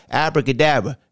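a hint of a straining voice; mild strained-voice abracadabra. Shown as a demonstration. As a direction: say it with a tight, strained push. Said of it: "the voice is high pitched and sound like it's straining".

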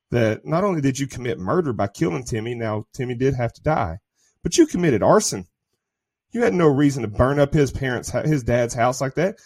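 ordinary talk

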